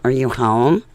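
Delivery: loud, put-on operator voice; telephone operator. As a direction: call out like a phone operator. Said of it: "like, an A T and T operator".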